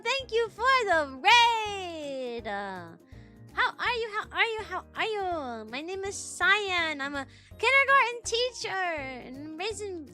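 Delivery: put-on high sweet anime girl voice; cute anime streamer. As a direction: greet the raider in a bubbly cutesy voice. Greets raider in put-on voice.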